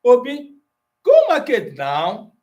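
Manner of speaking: yelled high command, go market now; forceful Pidgin-speaking parent yelling. Shown as a demonstration. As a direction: shout the order at Obi. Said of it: "one is more forceful".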